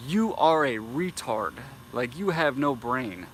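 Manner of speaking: slow, cutting insult; heated, deliberate put-down; heated rant. Real, not acted. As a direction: spell it out slowly in anger. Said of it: "I get a little heated".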